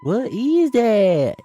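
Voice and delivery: high, loud, slow spooked cry; startled. Acted. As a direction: shriek it out in mock fright. Mock startled reaction.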